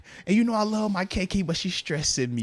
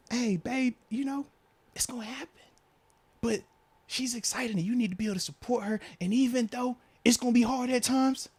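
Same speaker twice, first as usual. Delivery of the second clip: higher, softer gentle mom; 5 semitones higher, 4 dB quieter than usual. Retold or imitated. Son imitating his mom's pep talk. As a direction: coax it softly like a caring mother. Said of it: "she hit me with the".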